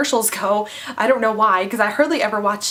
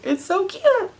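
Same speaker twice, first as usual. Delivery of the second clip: high, squealing gush over something adorable; 10 semitones higher than usual. Real, not acted. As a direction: squeal it like you can't handle the cuteness. Gushing over cute commercial.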